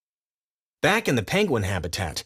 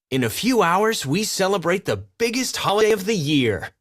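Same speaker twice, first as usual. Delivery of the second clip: high, bright royal boast; pompous lemur king; vain king voice; 8 semitones higher than usual. Acted. King Julian voiced in story.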